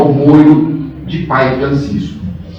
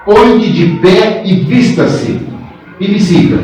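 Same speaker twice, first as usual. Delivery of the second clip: stern command; 2 semitones higher than usual. Acted. Strict Francisco gives an order.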